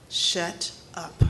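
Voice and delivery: flat, breathy whispered shut up; hushed shut up. Retold or imitated. Supervisor dismissing her concern.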